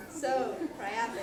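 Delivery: slow words through giggles; laughing. Real, not acted. Cast member cracking up mid-scene, laughing. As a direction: break up laughing on the line.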